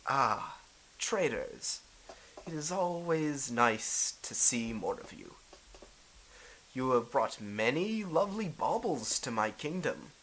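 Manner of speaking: a hint of a gracious warlord receiving visitors; mildly theatrical Japanese ruler in audience; lightly voiced Daimyo welcoming traders. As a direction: greet the merchants as a lightly played lord.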